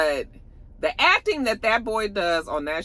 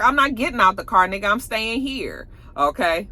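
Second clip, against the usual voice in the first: insistent; 5 semitones higher, 3 dB louder than usual. Retold or imitated. Friend refusing to leave, quarrel.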